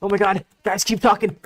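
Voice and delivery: high, hammed-up begging voice; mock pleading. Streamer mocks rival begging chat to keep laughing, high whine. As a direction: whine it like a needy fan. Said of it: "But in reality, he's like".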